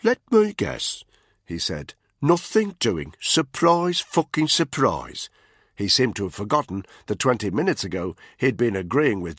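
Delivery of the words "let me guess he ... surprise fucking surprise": higher, sneering voice with a slow, sour payoff; mocking tough guy sneering. A narrator's reading. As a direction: sneer it at them. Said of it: "a characteristic sneer on his face".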